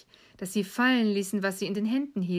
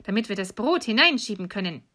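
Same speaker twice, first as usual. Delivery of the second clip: commanding witch; 5 dB louder than usual. Acted. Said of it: "sagte die Hexe".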